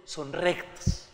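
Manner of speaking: slow, solemn declaration in a set-apart voice; slow, grave psalmist; psalmist's voice. Acted. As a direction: proclaim it slowly as the psalmist. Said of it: "el salmista dice".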